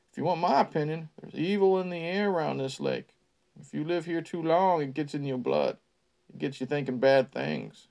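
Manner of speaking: put-on folksy old local spinning a tale; old country man. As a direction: spin it like a creepy small-town storyteller. Ned's line in character.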